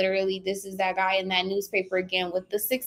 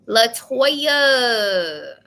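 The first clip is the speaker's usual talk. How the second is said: calling out louder; 6 dB louder than usual. Real, not acted. Reader calling out to caller Latoya, louder. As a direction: call the name out.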